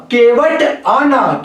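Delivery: केवट आना very slow, केवट set apart from आना; punctuated phrasing. Shown as a demonstration. Teacher demonstrating changed meaning by punctuation, slow phrasing. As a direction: draw out "केवट आना" word by word. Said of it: "एक विराम चिन्ह के प्रयोग से".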